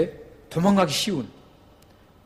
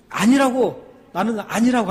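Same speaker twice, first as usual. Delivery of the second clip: drawn-out, higher desperate denying; insistent denial; 6 semitones higher, 4 dB louder, slower than usual. Retold or imitated. Peter denying to the servant girl, loud drawn-out insistence. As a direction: plead that it wasn't you. Peter denies knowing Jesus.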